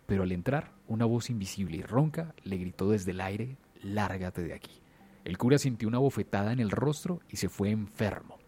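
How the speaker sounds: dramatic storyteller with measured pauses; suspense story narration. A narrator's reading. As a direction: tell it like a true horror tale, punching the openings of phrases. Tells a horror story.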